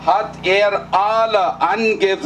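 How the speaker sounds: usual speaking voice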